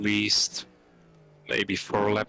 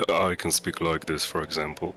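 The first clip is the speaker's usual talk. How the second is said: narrator voice; 2 semitones lower than usual. Shown as a demonstration. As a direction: speak like a documentary narrator. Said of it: "it's my narrator voice".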